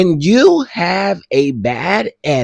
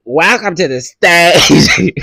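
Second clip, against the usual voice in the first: slow, louder grand welcome; imitating the host; 4 semitones higher, 5 dB louder than usual. Mocking the host bringing Mel on stage, slow grand announcement. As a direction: stretch the welcome like a showman. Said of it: "it's the way he say Mel's name".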